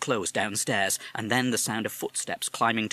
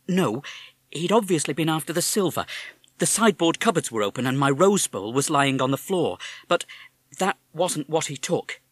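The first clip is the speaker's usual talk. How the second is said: mother; 6 semitones higher, 5 dB louder than usual. Acted. Mother explains.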